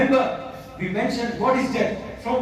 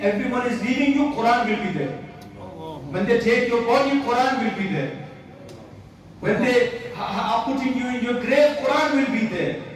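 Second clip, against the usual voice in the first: impassioned preaching. Real, not acted. Preaches with rising force.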